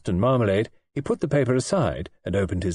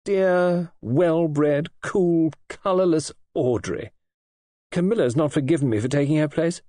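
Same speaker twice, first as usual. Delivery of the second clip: voice shaking; 6 semitones higher than usual. A narrator's reading. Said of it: "Her voice shook a little".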